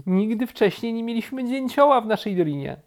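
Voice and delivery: high-pitched, delighted bear voice; charmed bear. A narrator's reading. Bear welcomes the woodpecker, high and delighted. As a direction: say it high, full of wonder.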